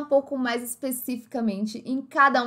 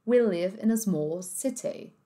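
British accent; 4 dB quieter, slower than usual. Shown as a demonstration. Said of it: "um inglês mais puxado pro britânico".

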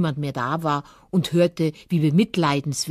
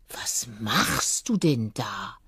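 slow, low, astonished question; baffled fox; 6 semitones lower, slower than usual. Acted. Fox returning to find the hare balancing, baffled. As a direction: ask it slowly, dumbfounded. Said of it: "fragte er verblüfft".

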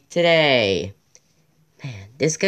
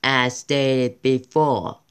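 mock announcer voice; much slower than usual. Reading wiki in put-on voice.

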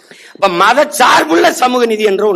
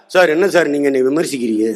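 mock offended reply; 6 semitones lower, 3 dB quieter than usual. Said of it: "ஒரு வாத்தியாரு கேள்வி கேட்டா".

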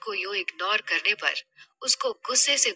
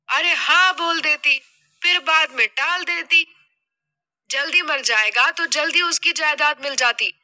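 louder, exasperated mother role; scolding mother; 4 semitones higher, 4 dB louder than usual. Acted. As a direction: berate your foolish daughter. (माँ की झुंझलाई डाँट)

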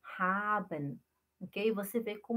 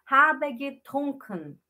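slow, louder "Habe getrunken"; slow emphasis; 4 semitones higher, 5 dB louder, slower than usual. Shown as a demonstration. Teacher repeats the correct form slowly. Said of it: "Vocês estão ouvindo?".

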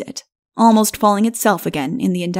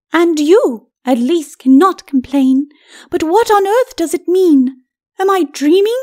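higher, cool lady's voice; dry skeleton lady; 8 semitones higher, 5 dB louder than usual. A narrator's reading. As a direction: answer him with icy dryness.

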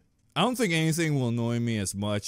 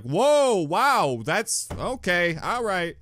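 lightly voiced, brushing it off; a shrugging, hasty dismissal; a hint of a higher casual girl; mocking Ruby; 5 semitones higher than usual. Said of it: "she'd be like".

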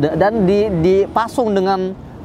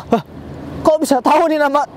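higher-pitched, taken-aback question; startled disbelief, imitating the group; acted startled surprise; 7 semitones higher than usual. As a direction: voice their shock, pitch jumping up. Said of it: "Kaget mereka".

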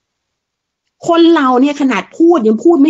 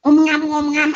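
mock royal mumbling; 3 dB quieter than usual. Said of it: "กษัตริย์เป็นตระกูลที่พูดไม่รู้เรื่อง".

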